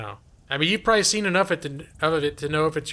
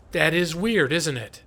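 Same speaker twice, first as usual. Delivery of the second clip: very caustic. Retold or imitated. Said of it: "very caustically".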